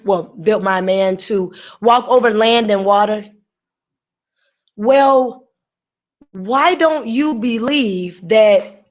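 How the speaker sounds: very slow, emphatic inspirational preaching. Acted. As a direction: preach it slowly, stretching every phrase.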